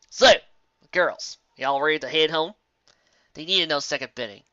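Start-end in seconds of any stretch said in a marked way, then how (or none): 0.9-2.5 lightly voiced country mare; a hint of Applejack's twang. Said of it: "Applejack replied".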